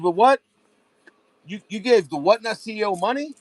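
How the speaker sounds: mock outrage. Parent questioning the seller about the money, incredulous. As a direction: swoop up in exaggerated disbelief. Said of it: "Like, she said".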